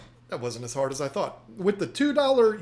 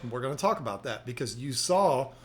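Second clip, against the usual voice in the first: chewing gum; 4 semitones lower than usual. Real, not acted. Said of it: "I'm spitting all over the place 'cause I just put a brand new piece of gum in my mouth".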